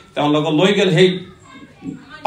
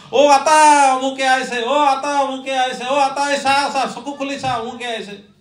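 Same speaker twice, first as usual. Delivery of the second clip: calling the dying man; 4 semitones higher than usual. Retold or imitated. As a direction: call out to a dying father, then let it die away. Relatives call to dying man.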